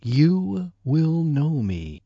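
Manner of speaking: hushed, spooky whisper of the title; host whispering the creepy book title to sound eerie. Pretend. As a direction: whisper it like a ghost story.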